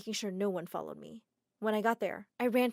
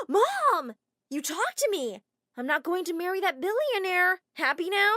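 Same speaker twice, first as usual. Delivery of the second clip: angry outburst; 8 semitones higher, 5 dB louder than usual. Acted. Daughter fights back at mother.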